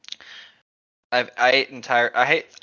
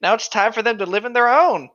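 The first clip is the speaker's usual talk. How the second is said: Aslan voice; 5 semitones higher than usual. Acted. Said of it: "Aslan replies".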